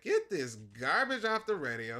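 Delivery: mock-outraged order; retold offended outburst. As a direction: act out disgust at the radio. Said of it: "highly offended that she was singing".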